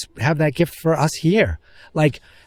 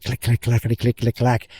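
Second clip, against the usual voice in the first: alien clicking; 2 semitones lower than usual. Retold or imitated. Alien whispering to Emily Blunt in clicks, mock alien clicking. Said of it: "leans in close to Emily Blunt and says".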